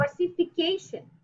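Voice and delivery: "Versification" with the stress on "ca", ver-si-fi-CA-tion; correct pronunciation. Shown as a demonstration. Teacher answers her own question, stressing "ca" in "Versification". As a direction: give the model answer "Versification", leaning on "ca". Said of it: "what is the right pronunciation?".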